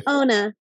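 "Ona" said on its own, slowly and clearly, OH-nah; "Ona" as a one-word pronunciation demo; Mohawk word. Shown as a demonstration. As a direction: model "Ona" for the hosts to repeat. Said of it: "Ona is see you later".

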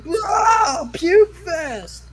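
high, loud rowdy bystander shout; hollered mock yell. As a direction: yell it out like a guy cheering on vomit. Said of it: "one guy fucking yells".

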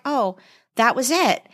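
mildly deflated, acted out; mock letdown. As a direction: let it sink in, disappointed. Imagined letdown after brief meeting.

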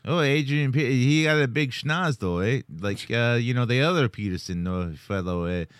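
lightly hammed Canadian accent; put-on Canadian accent. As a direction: toss it off like a cartoon Canadian. Joins in the Canadian bit.

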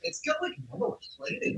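whispering. Real, not acted. Whispered aside.

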